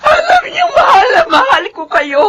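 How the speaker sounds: tearful plea. Acted. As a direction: plead with the kids through tears. Mother pleads with children, crying.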